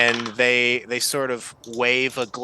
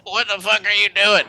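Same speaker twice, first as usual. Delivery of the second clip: higher, louder startled yell; startled outburst; 8 semitones higher, 5 dB louder than usual. Acted. Stranger woken from poison, yelling at the cleric. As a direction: blurt it out, alarmed and offended. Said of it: "he's like".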